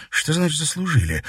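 throwing his word back at him; indignant question. A narrator's reading. Katerina to her father, indignant. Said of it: "возмутилась девушка".

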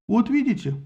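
satisfied. A narrator's reading. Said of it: "удовлетворённо сказал Бородатый".

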